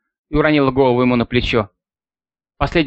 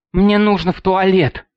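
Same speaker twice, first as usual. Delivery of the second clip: slow, slurred, half-whispered plea; tongue too heavy to form words; 5 semitones higher, slower than usual. Acted. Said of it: "заплетающимся языком прошептала она".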